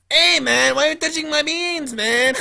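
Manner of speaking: put-on Spanish accent. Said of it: "So I was like".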